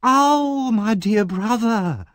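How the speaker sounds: high, slow, wailing woman; Nancy fakes a family scene; hammed-up sister cry. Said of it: "a loud scream behind him".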